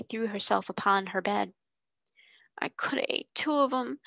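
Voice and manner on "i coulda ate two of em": voiceless, higher tearful whisper; crying into pillow. Acted. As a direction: sob it into the pillow without voice. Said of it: "they heard her cry into her pillow".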